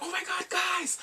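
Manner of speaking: very high, gushing squeal; mock excitement. Train Man posting news to his online friends, mock excitement. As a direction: squeal the news at normal volume.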